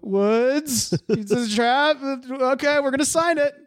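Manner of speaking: high, comic suspicious voice; wary pirates giving in. Retold or imitated. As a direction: question it high-pitched, then cave. Wary pirates question, then give in.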